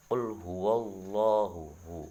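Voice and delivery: qul huwallahu with a thick, dark lam; heavy-lam Quran demo; heavy Allah. Shown as a demonstration. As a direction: recite it with tafkhim. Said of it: "maka dibaca tebal".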